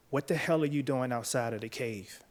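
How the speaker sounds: ordinary delivery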